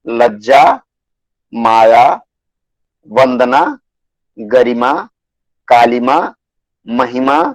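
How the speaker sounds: one word at a time, long pauses between; measured classroom dictation, each word set apart; word-list dictation. Shown as a demonstration. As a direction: dictate each word separately for students to write.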